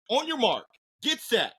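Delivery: high, excited countdown; race starter call. Acted.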